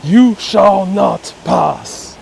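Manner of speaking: slow, a hint of wizard command; Gandalf. Movie quote for chat, slow mild wizard decree. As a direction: stretch each word, stern.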